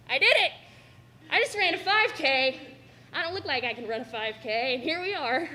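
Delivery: loud, high proud yell after the race; triumphant cheer. Retold or imitated. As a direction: shout it like you just finished a 5K. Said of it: "when you're like".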